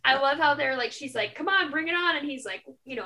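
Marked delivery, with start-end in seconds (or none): 1.3-2.1 high, loud taunt; retold challenge. Heroine daring her foe to fight, loud mock taunt. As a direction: goad the enemy, playfully acted.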